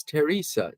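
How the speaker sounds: "Teresa" begun with a plain T; "Teresa" with the H silent. Shown as a demonstration. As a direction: say "Teresa" as teh-REE-sa, no th. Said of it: "so the H is silent".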